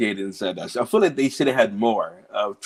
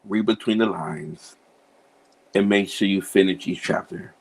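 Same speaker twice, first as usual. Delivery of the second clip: billboard slogan. Real, not acted. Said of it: "It would probably say".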